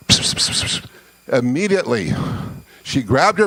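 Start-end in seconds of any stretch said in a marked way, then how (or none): 0.1-0.9 breathy whispered psst psst into an ear. Retold or imitated. Captain whispering secret to the blonde guest, whispered hiss. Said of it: "he whispers into the guest's ear".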